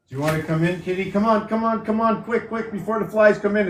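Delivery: high coaxing call to a cat at the door. Real, not acted. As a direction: call the kitty in with a high pet voice.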